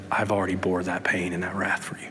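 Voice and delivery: Jesus quietly answering a believer who fears hell, tender; quiet reassurance. Retold or imitated. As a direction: soothe a frightened sinner gently.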